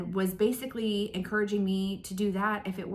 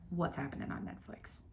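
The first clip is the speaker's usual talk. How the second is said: whisper; 3 semitones lower, 10 dB quieter than usual. Real, not acted. Teasing lead-in to next topic.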